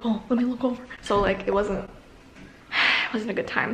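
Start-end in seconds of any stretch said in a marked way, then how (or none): 0.0-0.8 impersonation voice. Retold or imitated. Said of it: "same impersonation voice".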